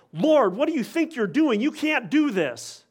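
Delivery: intense protest. Retold or imitated. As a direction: burst out at the Lord in shocked disbelief. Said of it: "That's the intensity".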